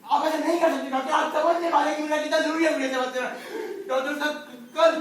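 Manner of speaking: pleading. Acted. Father begging doctor, rising despair.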